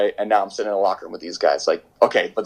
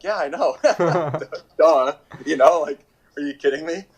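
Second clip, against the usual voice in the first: sarcastic; 4 semitones higher than usual. Retold or imitated. Speaker's own retold sarcastic reply.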